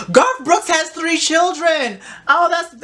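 the penny drops as she reads; surprised. Real, not acted. Reading that a singer has kids, she's surprised.

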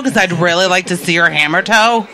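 creepy fan voice. Pretend. Mocking creepy feet fan.

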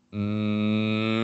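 a high, heady mm; high hum. Shown as a demonstration. Voice coach showing the wrong high hum. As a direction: hum placed high in the head. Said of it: "as opposed to humming up here".

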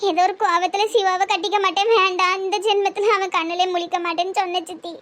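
mild weeping regret; tearful. Acted. Niece regretting her angry words to her aunt, tearful. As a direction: lament through held-back tears. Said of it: "அழுவாதம்மா".

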